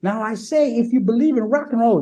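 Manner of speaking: rally the crowd like the frontman; lightly voiced frontman rallying the crowd; imitating a singer. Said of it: "he sounds like fucking Foghorn Leghorn".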